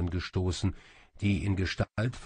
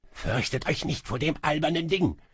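higher-pitched call to underlings; 8 semitones higher than usual. A narrator's reading. Sorcerer calls to his cowering monkey slaves, urgent shout. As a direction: call out to rally the servants. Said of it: "rief Kaba seinen Äffchen zu".

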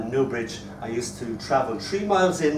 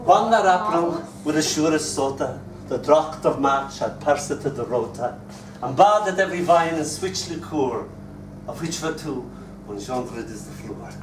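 measured Chaucer recital, falling away at the end; verse declaimed, then tapering off; Middle English recitation. Acted.

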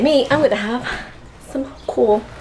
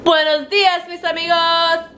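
bright greeting; 7 semitones higher than usual. Real, not acted. Greeting to viewers.

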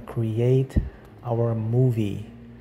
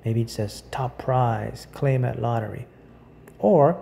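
measured guided visualization with long pauses; unhurried meditation guide. Acted. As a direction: lightly guide the listener through each image, pausing between phrases.

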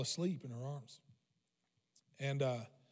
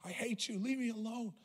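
higher, softer mock tantrum; pitched-up child's outburst, kept quiet; retold threatening; 5 semitones higher, 7 dB quieter than usual. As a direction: imitate a raging child while holding the volume down. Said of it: "I'm threatening her".

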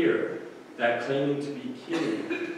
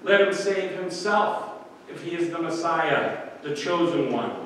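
lightly mock the helpless man; mild taunting; 3 semitones higher than usual. Religious authorities taunting Jesus on the cross, mild mock sneer. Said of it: "The religious authorities taunt him".

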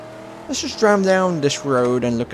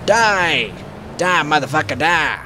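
yelling die; 2 semitones higher than usual. Real, not acted. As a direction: shout it at him as you fight. Fighting enemies in game.

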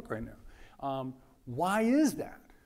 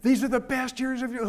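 mock grown-up advice; 6 semitones higher than usual. Adults telling students about college.

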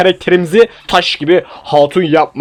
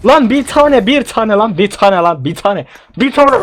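frantic pleading; 6 semitones higher, slower than usual. Real, not acted. Gamer begs the loot chest, frantic high pleading. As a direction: beg the box for one good item, voice shooting up.

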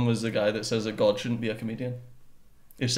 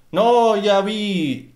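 higher, louder tough-guy rant with laughs; mock angry man; 7 semitones higher, 4 dB louder, slower than usual. Husband mimics the angry man from the show, hammed-up laughing. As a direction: ham up a swaggering hard man. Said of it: "the angry man".

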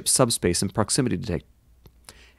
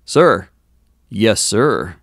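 shocked; 6 dB louder, much slower than usual. A narrator's reading. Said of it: "looked over his shoulder at the captain in shock".

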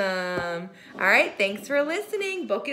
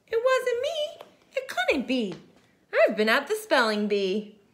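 a lightly raised squirrel voice; 3 semitones higher than usual. Acted. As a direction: chirp it out as the squirrel denying it. Squirrel voiced in read story.

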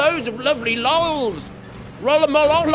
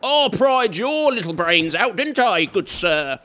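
slow, smug taunt ending low on good sir; mock posh gloat; 3 semitones lower, slower than usual. Gamer taunting a dead zombie, smug mock-posh gloat. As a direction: lord it over the fallen zombie like a toff.

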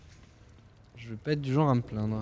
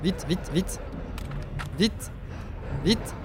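panicked, higher and louder; frantic urgent panic; being chased; 4 semitones higher, 7 dB louder, much slower than usual. Real, not acted. Chased by dogs, stressed. (panique de poursuite)

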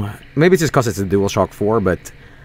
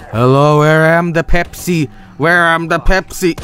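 dumb zombie voice; 4 semitones higher than usual. Pretend. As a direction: play a clueless hungry zombie. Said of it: "I think it's me as a zombie".

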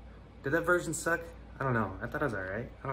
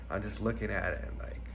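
whisper; 3 semitones lower, 6 dB quieter than usual. Acted. Drops to a whisper.

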